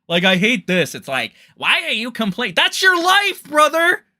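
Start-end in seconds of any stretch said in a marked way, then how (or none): 1.6-4.0 high, loud mocking shout; mocking yell. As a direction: throw it back at him as a sneering yell.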